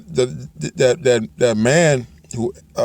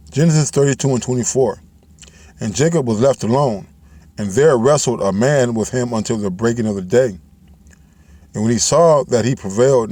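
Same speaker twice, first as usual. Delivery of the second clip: careful, deliberate scripture reading, each word given its place; read slowly. Shown as a demonstration. Preacher rereads Genesis to his listeners, carefully. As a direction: take the verse again with care. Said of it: "let me read it slowly".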